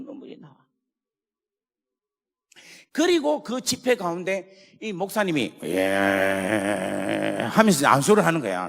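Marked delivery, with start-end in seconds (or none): 5.6-8.7 low, loud laying-on-of-hands call; imitating the revival preacher. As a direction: mimic the preacher's forceful "주여". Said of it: "이건 내가 지금 흉내 내는 거니까". (부흥 강사 목사님 흉내)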